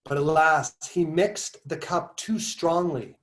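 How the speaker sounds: slow, measured recitation with pauses between phrases; essay reading. Acted. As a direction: read the passage out deliberately, stretching key words. Resumes reading the passage.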